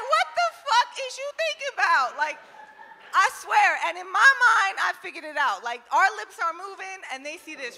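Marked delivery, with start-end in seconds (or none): 0.0-2.2 much higher, exasperated; exasperated high demand. Retold or imitated. Comic asking her zoned-out man, high and exasperated. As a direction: throw it at him, fed up.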